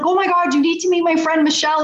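high-pitched, rushed excitement; gushing, breathless-paced mock freak-out; retold excited freak-out. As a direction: imitate a friend bursting with urgent matchmaking excitement. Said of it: "she starts freaking out".

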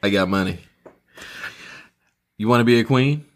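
deep, lordly king voice; regal voice. Acted. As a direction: play a smug, wealthy king. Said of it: "It's the regal voice".

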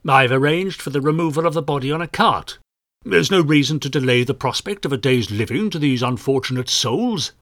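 a puffed-up rival inspector, lightly voiced; condescending, chest out; pompous inspector.

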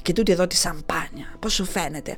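lightly voiced flamboyant Dionysus; chatty wine-pusher. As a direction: sweet-talk him into drinking. Dionysus plying Hephaestus with wine.

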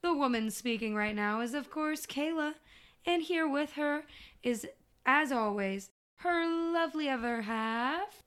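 upbeat show opener; podcast host intro. Acted. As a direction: welcome the listeners in.

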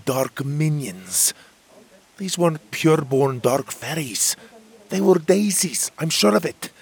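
fairy describing corrupted daisies; troubled fairy Magborn. Acted. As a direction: recount the horror gravely. Magborn describes dark minions.

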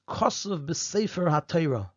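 "Kosev" and "HaTorah" picked out with deliberate emphasis; stress on Kosev and HaTorah. Shown as a demonstration. Teacher showing students the verse's key words, "Kosev" and "HaTorah" stressed. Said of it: "Look at the emphasis on the word Kosev and HaTorah".

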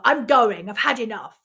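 loud, exasperated start, then dropping; retold fed-up outburst. Retelling storming out on family, fed up. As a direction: fire off a mock exit line.

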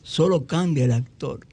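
grand recital of song lyrics; poetry declamation. Shown as a demonstration. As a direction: recite it like a poem, measured and grand. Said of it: "pero voy a declamar".

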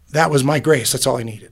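emotional, throat tightening; choked up. Real, not acted. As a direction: hold back tears on it. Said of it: "I'm gonna get all choked up".

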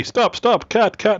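high, urgent call to cut; urgent stop. Real, not acted. Host yelling to stop the botched opening. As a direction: halt the take right now.

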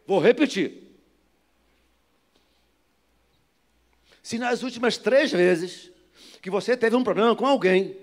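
loud, emphatic sermon exhortation; forceful, shouted pulpit delivery; full-force preaching. Real, not acted. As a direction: drive each phrase home to the congregation.

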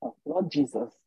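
low muttered prayer with disapproving hums; typical African mother. Retold or imitated. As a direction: imitate an African mum hmming and invoking Jesus. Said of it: "typical African woman".

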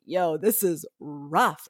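slow, drawn-out worn-out practitioner; weary complaint. Retold or imitated. Long-time practitioners admitting the struggle, slow and weary. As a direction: groan it out like someone exhausted by the practice.

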